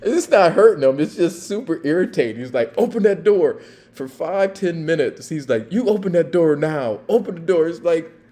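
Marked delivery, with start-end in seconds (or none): 2.8-3.6 loud, high laughing shout; yelling order. Retold or imitated. Officer to drunk on the couch, loud laughing yell. 5.7-7.7 loud, high laughing shout; yelling order. Retold or imitated. Officer to drunk on the couch, loud laughing yell.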